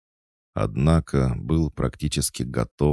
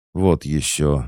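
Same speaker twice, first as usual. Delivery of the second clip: louder, higher huffy retort; indignant fox; 4 semitones higher, 5 dB louder, slower than usual. Acted. Fox doll insulted by the guest, indignant. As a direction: bristle at being called a machine. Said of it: "возмутилась жуткая лиса".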